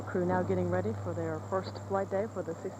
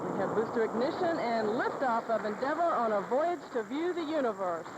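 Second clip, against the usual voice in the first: rising, thrilled launch announcement; excited liftoff call; 3 semitones higher than usual. Real, not acted.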